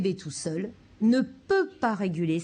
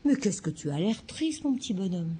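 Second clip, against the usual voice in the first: parent qui mentalise. Shown as a demonstration. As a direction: question douce à un bébé. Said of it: "Ça, c'est de la mentalisation". (doux parent qui console)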